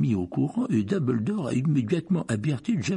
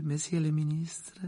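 barmaid question; 5 semitones higher, 4 dB quieter than usual. A narrator's reading. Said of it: "demanda la voix de madame Rosmerta".

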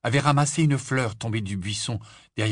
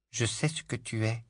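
murmured; 5 dB quieter than usual. Acted. Boy confides to the girl in a softer murmur. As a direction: lean in and murmur it. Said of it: "il baissa la voix et murmura".

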